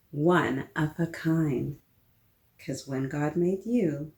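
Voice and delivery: put-on gentle, lilting read-aloud to children; picture book read-aloud. Librarian reading a picture book to children, gentle and lilting.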